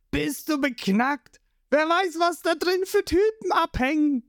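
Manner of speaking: high, panicked shriek; mock shriek. A narrator's reading. Johnny and Lysop shriek at Zorro, panicked high voices. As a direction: squeal it out in fright. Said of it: "Johnny und Lysop kreischen auf".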